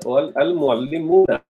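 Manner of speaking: al repeated, then al muallimuna said in full; correcting to al muallimuna. Shown as a demonstration. Teacher fixes his own slip, stressing al muallimuna. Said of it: "I haven't done it correct".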